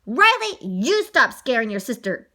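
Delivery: loud opening name, then firm scold; scolding mom. Acted. Mom orders son to stop scaring sister, scolding. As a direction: tell the child off.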